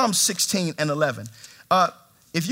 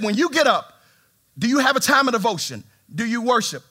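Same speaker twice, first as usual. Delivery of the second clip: strong insistent stranger; 4 semitones higher than usual. Retold or imitated. Stranger on the plane insisting, strong voice. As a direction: press it like a pushy stranger. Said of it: "he's very strong talking like this".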